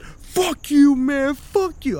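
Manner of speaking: high, hammed-up angry cursing; imitating drunk Richard telling Chris off; mock angry Richard. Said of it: "And Richard".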